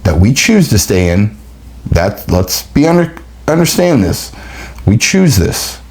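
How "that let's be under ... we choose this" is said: rising urgent plea. Real, not acted.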